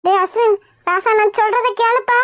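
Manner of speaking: softened appeal after the shouting; coaxing plea. Acted. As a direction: coax your angry son to listen. Mother coaxes son after shouting. (கெஞ்சலாகச் சொல்லுதல்)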